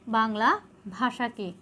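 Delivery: slow, soft dictation for students to write down; dictation pace. Shown as a demonstration. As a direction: say it slowly so they can copy it. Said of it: "তোমরা তুলে নাও".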